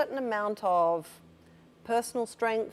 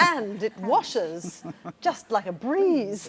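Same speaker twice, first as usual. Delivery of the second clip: slow, loud sales pitch voice; infomercial voice; 3 semitones higher, 6 dB louder, much slower than usual. Pretend. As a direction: sell it like a TV ad. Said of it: "starting to sound like an infomercial".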